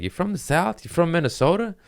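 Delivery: high questioning mock heckler; a lightly voiced heckler; mild mock quizzing; mock audience heckle. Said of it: "They're like".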